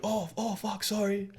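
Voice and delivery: soft, high mock apology; sheepish apology. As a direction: apologise quietly as if caught out. Acted apology when caught out.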